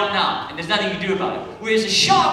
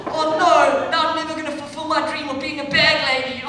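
mock dismay; 8 semitones higher, 5 dB louder than usual. Mock dismay over Woolworths.

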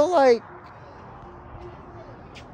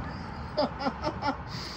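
breathless laugh; 5 semitones higher, 13 dB quieter than usual. Real, not acted. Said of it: "I laughed at him".

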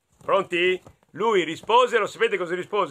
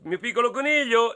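lightly voiced mother; 7 semitones higher, faster than usual.

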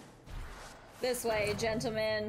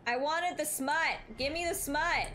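higher-pitched pleading demand; eager demand; 5 semitones higher than usual. Real, not acted. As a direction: beg for more, pitched up. Demands more of the romance book.

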